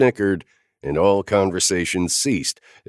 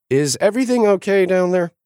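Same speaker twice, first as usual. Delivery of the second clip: higher, uneasy call; nervous; 4 dB louder, faster than usual. A narrator's reading. Naomi calling down the table, nervous and high. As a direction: worry you're missing something. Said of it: "sounding nervous".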